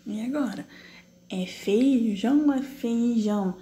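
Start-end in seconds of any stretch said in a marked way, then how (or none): 1.5-2.5 "feijão" with FEI as one syllable; joined vowels. Shown as a demonstration. Teacher asking pupils if it is joined, said as one FEI. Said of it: "Ele é junto ou ele é separado". 2.6-3.6 "feijão" with the E and I drawn apart; separated vowels. Shown as a demonstration. Teacher asking pupils if it is separated, vowels pulled apart. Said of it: "ou ele é separado".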